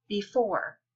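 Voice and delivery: "before" with the weight on its second syllable; stress on second syllable. Shown as a demonstration. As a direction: say "before" slowly, leaning on "fore". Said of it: "The second one is stressed. It's louder".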